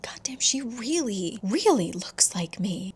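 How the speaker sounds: hushed, breath-heavy aside to oneself; half-whispered amazement, slowing at the end; awed undertone. Retold or imitated. Eden studying the lookalike woman, hushed amazement. Eden's stunned inner thought.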